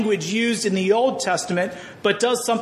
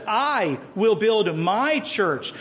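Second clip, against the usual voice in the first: each word drawn out and weighted; slow, deliberate quotation of a promise; slow solemn quote; 2 semitones higher, much slower than usual. Shown as a demonstration. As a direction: lay down every word of the promise slowly. Repeating Jesus' promise slowly.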